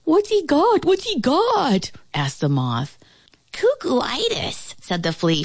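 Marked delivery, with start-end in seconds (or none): 0.0-1.9 very high, squeaky repeated question; excited creature. A narrator's reading. Moth asking about the ant's idea, excitedly. 3.5-4.8 very high, drawn-out squeak; flea voice. A narrator's reading. Flea diagnosing the ant, squeaky voice.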